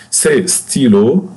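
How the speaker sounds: "Ces stylos" said slowly and clearly; drawn out so students can repeat "Ces stylos"; teacher's slow modelling of "Ces stylos"; slow model word. Shown as a demonstration. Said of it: "model word for class".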